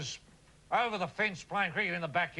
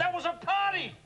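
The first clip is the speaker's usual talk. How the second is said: excited exclamation; 9 semitones higher than usual. Acted. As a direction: burst out with nostalgic glee. Nostalgic party memory.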